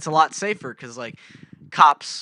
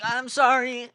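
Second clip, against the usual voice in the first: meek apology; 10 semitones higher, 4 dB louder, slower than usual. Retold or imitated. Driver apologizing meekly.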